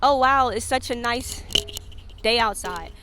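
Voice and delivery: slow, fake-polite small talk; mock a boring chit-chat. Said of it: "I don't wanna do the small shit".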